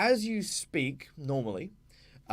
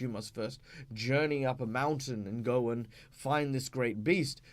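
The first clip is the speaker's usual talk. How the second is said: ordinary delivery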